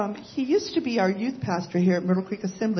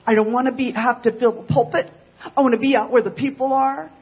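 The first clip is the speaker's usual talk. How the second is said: acted-out exasperated complaint, mostly raised in pitch; fed-up venting; 4 semitones higher, 4 dB louder than usual. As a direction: vent like someone who has had enough.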